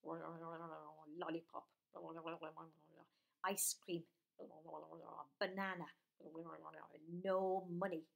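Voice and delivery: soft, very slow whispered list; little whisper. Acted. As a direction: whisper it like a secret. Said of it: "they had a little whisper like this".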